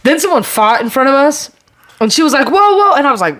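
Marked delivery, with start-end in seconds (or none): 2.5-2.9 high, louder mock alarm; startled whoa. Imitating girlfriend seeing a fight break out, high startled whoa.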